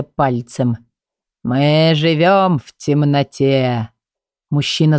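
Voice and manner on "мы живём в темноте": monster voice. Acted. Monster threatens.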